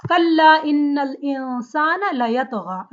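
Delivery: intoned, measured Arabic recitation; Quran recitation. Acted. Teacher recites the verse for students, recitation style. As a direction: chant the verse in flowing recitation.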